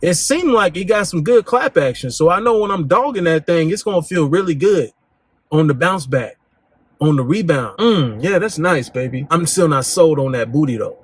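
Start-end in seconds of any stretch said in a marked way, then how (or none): 0.0-9.3 laid-back guy voice. Retold or imitated. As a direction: play the aloof guy sizing her up. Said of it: "He's like".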